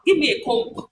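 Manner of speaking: "comb" with the silent B sounded at the end; mispronunciation. Shown as a demonstration. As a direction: release a hard B after "comb". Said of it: "You don't say that".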